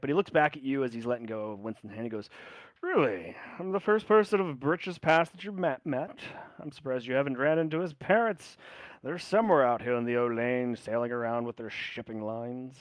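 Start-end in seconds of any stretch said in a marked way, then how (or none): 2.8-12.8 lightly voiced older sailor, curious; a friendly old seaman, a bit surprised; hint of a weathered sailor asking; old family friend.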